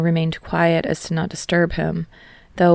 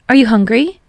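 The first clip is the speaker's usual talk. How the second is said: Hinata's voice; 6 semitones higher, 8 dB louder than usual. A narrator's reading. Hinata voiced higher in story.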